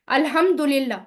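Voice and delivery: अल्हम्दुलिल्लाह said with the दु vowel clear; अल्हम्दुलिल्लाह with a full दु, as in recitation; correct Arabic vowel. Shown as a demonstration. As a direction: stress the दु in अल्हम्दुलिल्लाह, crisp. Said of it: "अल्हम्दु बोलते हैं तो इसका मायना अलग".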